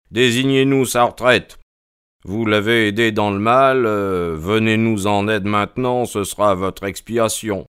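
lightly voiced insistent detective; a touch of solemn urging; insistent Holmes. A narrator's reading. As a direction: press for an answer, as the detective.

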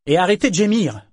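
mean, high-pitched jab; nasty. A narrator's reading. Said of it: "ajouta Althea méchamment".

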